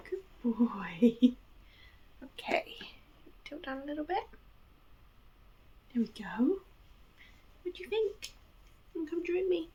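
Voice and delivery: high coaxing pet voice; high sweet dog-talk voice. Real, not acted.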